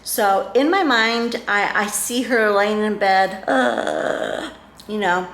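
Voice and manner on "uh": imitated dying groan. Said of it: "on her last breath".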